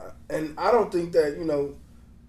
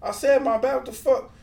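high-pitched mock exasperation; retold annoyed protest; 9 semitones higher, 3 dB louder than usual. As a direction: imitate a fed-up man, pitched much higher. Retold protest in a store clash.

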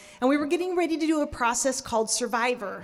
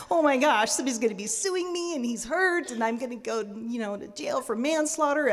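mock panic. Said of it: "catastrophic thinking thing".

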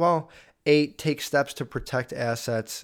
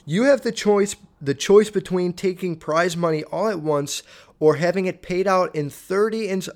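reading aloud; 5 semitones higher, 3 dB louder than usual. Shown as a demonstration. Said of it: "So it says".

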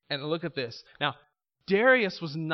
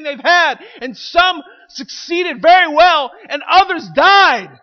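louder, higher rousing sermon; fervent preaching; 8 semitones higher, 11 dB louder than usual. Acted. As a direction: lift the church with conviction. Preaching climax, shouts.

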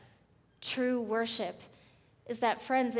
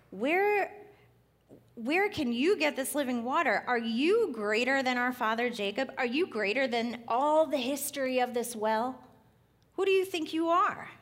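sassy woman; 4 dB louder than usual. Acted. Samaritan woman challenging Jesus at the well, sassy. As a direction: throw the questions back at him with attitude. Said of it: "I love her sass".

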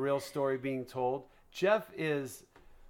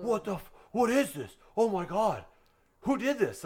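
higher-pitched, mildly amazed quote; retold astonishment; 4 semitones higher than usual. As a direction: imitate a friend's stunned questions. Acting out friend's astonished reaction.

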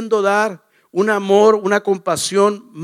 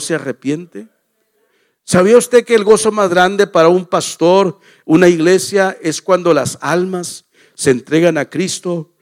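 louder, pressing preacher's questions; preaching; 2 semitones lower, 3 dB louder than usual. Acted. Pastor challenges the congregation about winning souls, preaching hard. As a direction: drive each question home to the church.

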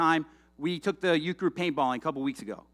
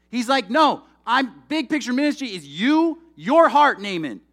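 louder, higher, pressing hard; preaching emphasis; 3 semitones higher, 5 dB louder than usual. Acted. Pastor voicing God to the congregation, loud and emphatic. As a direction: drive the point home with force.

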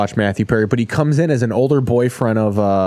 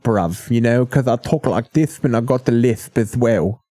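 lisping London voice; British accent with lisp. Acted. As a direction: talk like a Brit with a lisp. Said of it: "British accent with a lisp".

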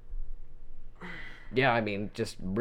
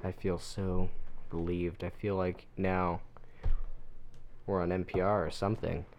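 hushed awe; 4 semitones lower, 9 dB quieter than usual. Acted. Deadpan awed reaction after ASMR.

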